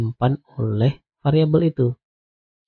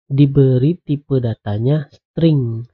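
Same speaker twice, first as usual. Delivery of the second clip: slow explaining; slower than usual. Shown as a demonstration. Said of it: "String ini anggap aja teks lah".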